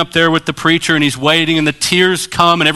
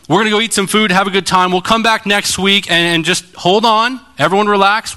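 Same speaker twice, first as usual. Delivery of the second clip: crowd reassurance; 4 semitones higher than usual. Retold or imitated. Preacher covering for stalled groom.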